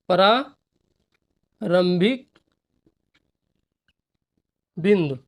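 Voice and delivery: प्रारंभिक drawn out very slowly, then बिंदु after a pause; dictating the term for students to write; slow dictation. Shown as a demonstration. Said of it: "dictating word by word".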